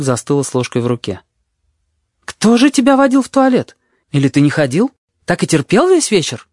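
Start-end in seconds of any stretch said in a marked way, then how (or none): 2.3-6.5 high, loud, appalled questioning; shocked nurse. A narrator's reading. Nurse questioning the boy, high and appalled. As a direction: demand to know, scandalised.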